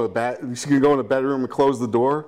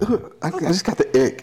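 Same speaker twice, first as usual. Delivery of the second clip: laughing mock disgust; 7 semitones higher than usual. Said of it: "she'd be like".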